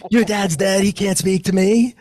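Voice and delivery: high-pitched, mock-incredulous retort. Telling wife her dad can't speak, high-pitched disbelief. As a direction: push it up high, imitating your own disbelief.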